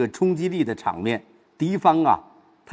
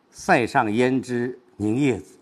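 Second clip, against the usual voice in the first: slow line with 凝夜紫 held back for weight; stress on 凝夜紫; slower than usual. Shown as a demonstration. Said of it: "重的是放在后边".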